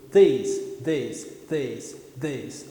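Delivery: "this" with the tongue tip touching the roof of the mouth; th with tongue touching palate. Shown as a demonstration. Teacher demos the touched th, with the tongue on the palate.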